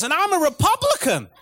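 high, gushing American woman; American accent. Retold or imitated. Woman confiding to the diners at the table, American accent. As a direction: confide it like a proud American stranger. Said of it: "Do the American accent".

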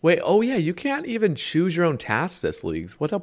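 talking while chewing; words around a protein bar; mouth full. Real, not acted. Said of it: "I'm just gonna eat this protein bar".

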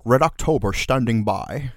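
bad Scottish accent; attempted Scottish accent with slushy s sounds; Sean Connery. Shown as a demonstration. Showing the co-host a Scottish accent, hammy Scottish impression. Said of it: "would you like to hear my Scottish accent?".

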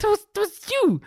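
put-on very high, indignant kid voice; protesting child. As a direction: squeal it like a wronged little sister. Acts out childhood protest to sister.

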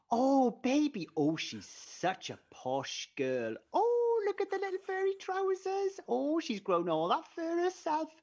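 put-on high, slow doting baby talk; cat voice. Shown as a demonstration. Asked on air, the host dotes on his cat in baby talk. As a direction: gush over the cat in a silly high voice. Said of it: "your cat voice for me".

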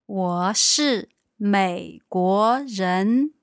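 teacher models 我是美国人 slowly; patient teacher modelling slowly. Shown as a demonstration. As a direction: clear slow model sentence. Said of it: "Could I try".

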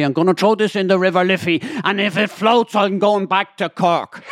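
slowing down on the punchline; Corkman's vow. Retold or imitated. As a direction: play the daft Corkman swearing an oath. Corkman quote in joke.

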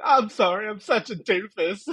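lightly voiced goofy weirdo. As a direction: imitate a weirdo saying sorry. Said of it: "starts talking like a weirdo".

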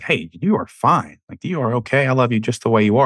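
voiced reassurance to a loved one; reassuring. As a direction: reassure a partner, lifting the pitch. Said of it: "I would just wanna be reassuring".

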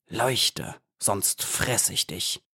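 a lightly voiced hornet guard, slow and hushed; hissed threat. Hornet guard threatening the glowworms, slow hushed hiss. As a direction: menace the glowworms under his breath, slowly. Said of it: "zischte jedes Mal".

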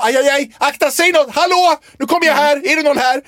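high, loud, frightened calling; high nervous calls of a scared man on the jetty; panicky blind walker. Pretend. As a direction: pretend to feel your way in a panic. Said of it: "jag hade krupit fram och bara".

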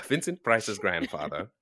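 put-on transatlantic accent with rolled R's; rolling every R grandly. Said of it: "Roll the R's".

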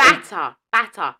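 Batter stressed, with a clear B; pronunciation correction. Shown as a demonstration. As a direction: spell out Batter with a firm B. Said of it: "No, B, not P".

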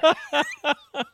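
laugh. Real, not acted. Laughing at the story.

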